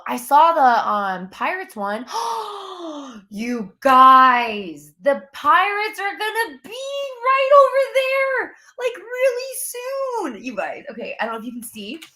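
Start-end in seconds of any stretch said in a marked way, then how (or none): 2.1-3.2 sharp excited intake of breath; excited gasp. Real, not acted. Excited gasp at Pirates news. 3.3-10.8 much higher, thrilled announcement; excited. Real, not acted. Excited news of Pirates coming.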